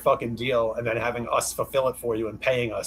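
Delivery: sarcastic congratulations. Real, not acted. Sarcastic jab at his deal.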